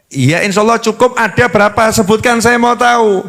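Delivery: lightly voiced insistent husband; suami memaksa. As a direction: press for an answer, mildly exasperated. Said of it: "Sampai suaminya yang mekso-mekso". (suami agak mendesak minta jawaban)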